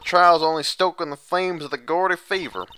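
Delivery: put-on southern accent. Lotta hollering hello to the lawyers in a loud Southern accent. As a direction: ham up a big Southern country girl accent. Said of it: "my flawless southern accent".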